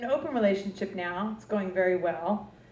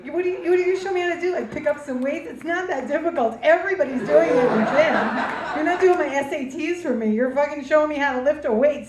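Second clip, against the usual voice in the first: fast, higher indignant rant; 4 semitones higher, 4 dB louder than usual. Real, not acted. Comic rants at a trainer about the price, indignant. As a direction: get worked up over the price.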